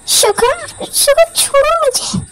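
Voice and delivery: a grown man in little space throwing a tantrum; high petulant child voice pleading then sulking; childlike sulking husband. Acted.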